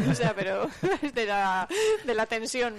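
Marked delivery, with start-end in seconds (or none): 0.1-1.7 laughing from nerves; tense giggly laughter through words; nervous laugh. Real, not acted.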